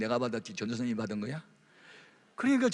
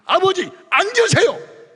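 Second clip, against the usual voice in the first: very high, loud slow command; half commanding; 14 dB louder, much slower than usual. Retold or imitated. Son forcing his knife-holding father to sit, commanding. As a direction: order him down firmly. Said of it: "반 명령적으로 눌러버렸더니".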